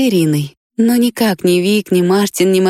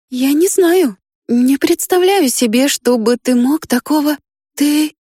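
put-on higher girl voice, faltering; girl's bewildered voice; 8 semitones higher than usual. A narrator's reading. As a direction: search for words, unsure. Risha confused.

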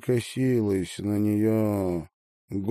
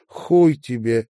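usual speaking voice

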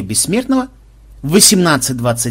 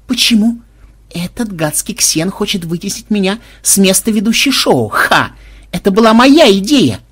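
indignant shout; 6 semitones higher, 4 dB louder than usual. Acted. Мелисса возмущена, кричит.

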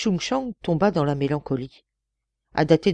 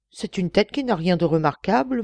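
simpering; 3 semitones higher than usual. Acted. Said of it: "minauda Ishin-Ho".

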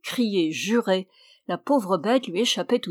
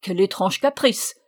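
s'écrie stupéfait; 3 dB louder than usual. Acted. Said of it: "s'écria-t-il".

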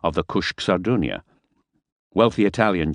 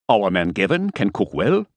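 higher, a touch defensive; 4 semitones higher than usual. Acted. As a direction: stand up for your cook, a bit piqued. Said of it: "said Fisher defensively".

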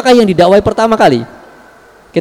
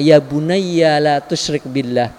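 plain; 2 semitones lower, 3 dB quieter, slower than usual. Retold or imitated. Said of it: "diucapkan oleh Luqman kepada anaknya".

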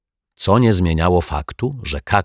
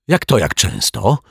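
irritated; 2 semitones higher than usual. Acted. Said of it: "zdenerwował się pan Mietek".

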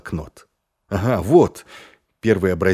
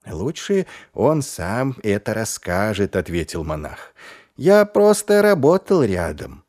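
frightened monk. Acted. Испуганный монах.

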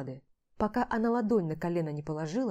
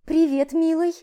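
high, loud honeyed hello; sugary female greeting; 10 semitones higher, 9 dB louder than usual. Acted. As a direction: coo it like a seductress.

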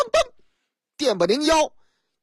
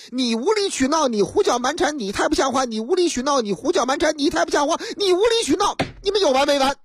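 quarrel building up; 5 semitones higher, faster than usual. Acted. Wife and husband trading insults in the car, climbing to a yell. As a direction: start a spat, then let it rise to a yelled peak.

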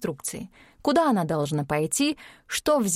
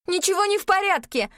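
yelling; 11 semitones higher than usual. A narrator's reading. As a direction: shout it down, desperate. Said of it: "орала Ирина".

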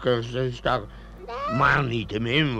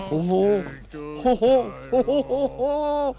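laughing; 10 semitones higher than usual. Acted. Laughs at drunks in pit.

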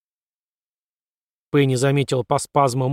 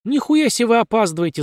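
yelling; 8 semitones higher than usual. A narrator's reading. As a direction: shout at the latecomers. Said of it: "заорал Стивен Смит".

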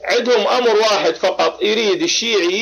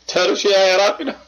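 laughing through the question, faster; teasing laugh; 2 semitones higher, faster than usual. Acted. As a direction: tease him, chuckling as you ask again. (سؤال ضاحك ساخر)

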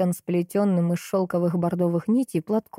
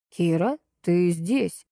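slow call; much slower than usual. Acted. Maxim enters calling for Kira.

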